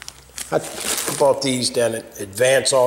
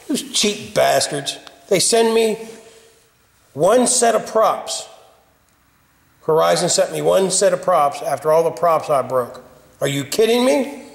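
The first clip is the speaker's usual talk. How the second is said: outraged. Real, not acted. Man opening the replacement props, outraged. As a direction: sound cheated and offended.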